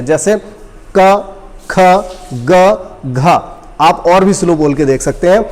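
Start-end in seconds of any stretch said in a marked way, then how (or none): 1.0-3.4 each sound said slowly and apart; slow motion consonants. Shown as a demonstration. Teacher sounding out letters slowly for the class. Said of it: "अगर आप slow motion में बोलेंगे".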